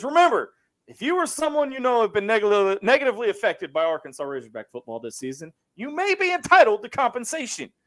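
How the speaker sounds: lightly voiced TV lawyer ad; injury lawyer ad. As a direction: read it like a late-night ad. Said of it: "He says".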